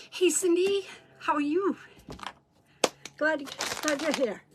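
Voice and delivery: winded from running the stairs; slightly breathless talking; out of breath. Real, not acted. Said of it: "I'm out of breath".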